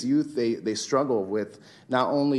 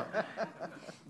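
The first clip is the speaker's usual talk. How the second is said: soft unvoiced laugh; breathy laugh; 9 semitones higher, 13 dB quieter than usual. Real, not acted. Laugh after crying joke.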